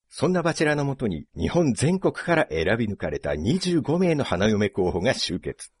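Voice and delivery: dramatic dating-show narrator; show narration. Pretend. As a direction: narrate it like a reality-show intro. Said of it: "今のナレーションだけで".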